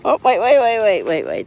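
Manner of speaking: rapid repeated waits, starting high; quick, tumbling string of waits; urgent halting. Real, not acted. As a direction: rein someone in quickly. Halting someone getting carried away.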